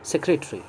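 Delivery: "सेक्रेटरी" as SEK-re-te-ri, every vowel sounded; correct pronunciation. Shown as a demonstration. Teacher marks this reading as the right one. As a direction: say "सेक्रेटरी" carefully, all four syllables. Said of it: "और यही सही है".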